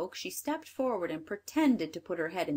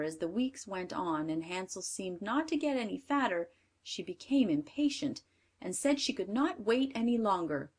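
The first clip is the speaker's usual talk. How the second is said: ordinary delivery, nothing marked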